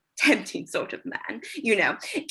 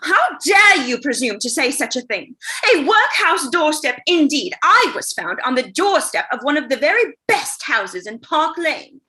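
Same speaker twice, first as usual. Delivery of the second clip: haughty indignation; 4 semitones higher, 5 dB louder than usual. Acted. Girl offended by workhouse remark.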